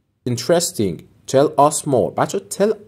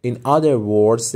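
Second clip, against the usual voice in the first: slow model phrase; much slower than usual. Shown as a demonstration. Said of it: "teacher models phrase".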